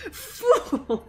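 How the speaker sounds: "Fool" yelled high and loud through a laugh; cartoon villain cry of "Fool" while cracking up; shouted fool. Shown as a demonstration. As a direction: bring back the old "Fool" shout, laughing. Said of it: "we need to bring back".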